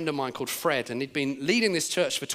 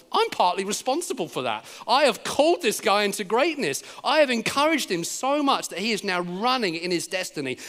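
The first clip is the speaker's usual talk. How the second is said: delighted pride, imagined; 2 semitones higher than usual. Retold or imitated. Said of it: "would have been absolutely loving it".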